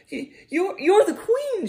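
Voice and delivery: high, stammering surprised cry; exclaiming. Acted. Lizzie realizing the old bee is the queen, exclaiming. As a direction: stumble over it in amazement. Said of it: "she exclaimed".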